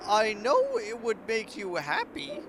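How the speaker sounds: a scheming mother-queen sweet-talking her daughter; coaxing robot queen. Acted. Queen continues.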